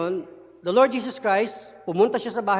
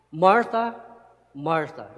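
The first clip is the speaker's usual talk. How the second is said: tender repeated name; 4 semitones lower, slower than usual. Acted. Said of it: "Inulit niya ... to emphasize".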